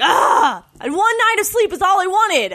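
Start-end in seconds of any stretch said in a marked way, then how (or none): 0.0-0.6 frustrated yell. Retold or imitated. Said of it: "'cause I'm just like".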